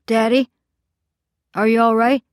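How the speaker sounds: high, loud call upward. A narrator's reading. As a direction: call down the stairs anxiously. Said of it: "Finally, I call out".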